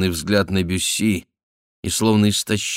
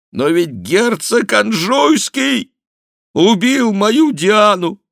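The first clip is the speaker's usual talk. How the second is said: очень высоко, громко, медленно, надрывно; рыдающий крик отца об убитой дочери; отчаянный вопль; 7 dB louder, slower than usual. A narrator's reading. Отчаяние прозвучало в его старческом голосе. (крик отчаяния старика)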